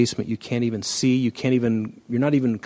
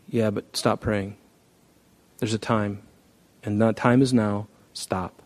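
quiet firm God; 2 semitones lower, 5 dB quieter than usual. Retold or imitated.

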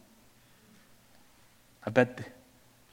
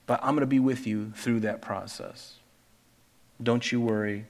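Jesus comforting. Pretend. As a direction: gently reassure a hurting friend. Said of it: "He's like".

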